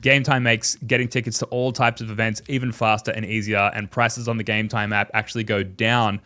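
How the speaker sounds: upbeat sponsor read voice. Acted. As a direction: sell it like a radio ad. Sponsor ad read, noticed after.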